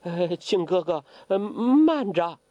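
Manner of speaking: slow, hesitant, a touch of fear; 黄蓉声音发颤，慢慢说; trembling voice. Acted. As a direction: hold him back, scared of the coffin. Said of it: "声音也发颤了".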